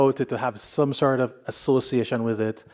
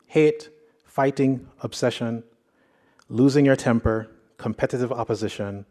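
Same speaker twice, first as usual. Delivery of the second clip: scripture reading. Acted. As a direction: read the passage aloud to the congregation with weight. Reads scripture passage aloud.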